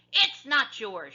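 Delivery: slow shout. A narrator's reading. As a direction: drag out the protest. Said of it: "shouted Annie".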